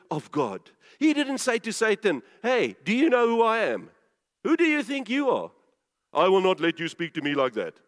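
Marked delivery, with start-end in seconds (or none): 2.4-7.8 mock indignant retort. Preacher acting out what Yeshua didn't say to Satan, mock indignant. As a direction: act out offended pride, pitched up then dropping.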